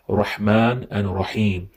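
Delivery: "Rahman and Rahim" with throaty Arabic ḥ; "Rahman" with a breathy throat ḥ, Arabic style; correct demo. Shown as a demonstration. Teacher gives students the correct form, throaty ḥ. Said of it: "the correct pronunciation".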